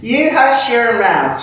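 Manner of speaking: slow, high reproach; slow scolding. Retold or imitated. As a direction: drag out the rebuke like a prim lady. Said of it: "she says".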